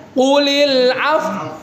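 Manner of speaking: Qulil af- with lips pushed forward, slow; lips pursed. Shown as a demonstration. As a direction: round the lips into a pout on af-. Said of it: "isyaratnya jangan lama-lama".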